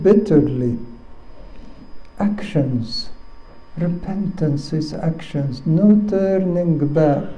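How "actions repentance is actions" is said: hushed emphasis. Acted. Dropped to near whisper.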